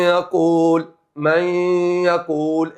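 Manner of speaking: من يقول with the nun merged into ي and a held nasal hum; nasal merge demo. Shown as a demonstration. Teacher demonstrating for students: من يقول with ghunna. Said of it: "إدغام بغنة".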